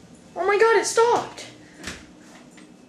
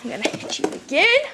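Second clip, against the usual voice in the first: taunting; 3 semitones higher than usual. Acted. Taunting the killer with an axe.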